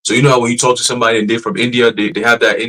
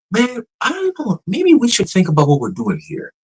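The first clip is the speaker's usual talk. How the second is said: casual humanlike AI; 10 semitones higher than usual. Retold or imitated. Imitating the AI sounding human now, high and unsure. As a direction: drift up like a person shrugging it off. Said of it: "Now it's".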